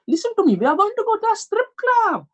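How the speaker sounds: put-on high, insistent Asian accent; hammed-up Asian accent. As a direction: announce it in a high-pitched mock Asian accent. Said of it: "As you heard the Asian accent".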